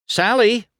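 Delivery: high, loud call. A narrator's reading. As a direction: call her name across a crowd. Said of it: "McQueen called".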